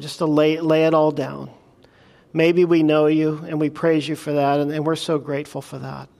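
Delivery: softening pastoral prayer. Acted. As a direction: pray gently over the congregation. Pastor prays closing prayer.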